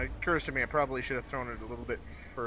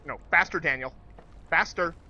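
being chased; 4 semitones higher, 7 dB louder than usual. Real, not acted. Urging himself while chased.

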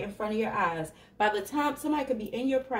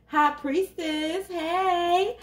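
playful greeting; 7 semitones higher, much slower than usual. Real, not acted. Calling greeting to card and viewers.

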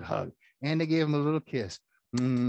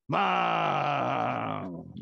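calling out to mom. Real, not acted.

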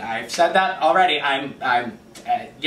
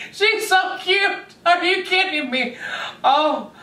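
very high, drawn-out fan squeal; gushing squeal; slower than usual. Real, not acted. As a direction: squeal with delight, stretching the words. Gushing over trailer.

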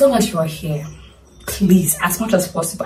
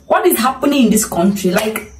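retold fed-up rant, rising to a squeaky what; mock outraged what, pitched way up; exasperated outburst; 4 semitones higher than usual. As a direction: vent at the country, the last word shooting up high. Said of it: "I am so pissed that I'm like".

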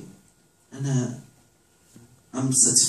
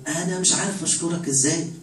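higher, lifted with wonder; awed, grateful prayer; overwhelmed thanks; 4 semitones higher than usual. Retold or imitated. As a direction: gush thanks to God like you don't deserve it. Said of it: "واحد واقف قدام ربنا يقول له".

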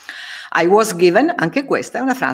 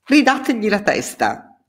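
mock shout; 8 semitones higher than usual. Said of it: "Friedrich urlò".

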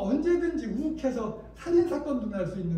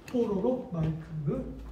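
slow repeat; much slower than usual. Shown as a demonstration. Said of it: "뽀로로 마이크 이렇게 검색하시면 돼요".

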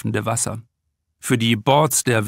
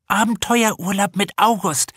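higher voiced snack-bar owner, said with a grin; grinning remark; 7 semitones higher than usual. Snack-bar owner Antje joking to Piet about the mother, grinning remark. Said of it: "raunt Antje mit einem Grin".

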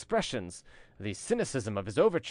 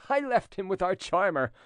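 mocking amusement; 8 semitones higher than usual. A narrator's reading. De Jars jeers about the fainting charmer, laughing. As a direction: pitch climbing into laughter.

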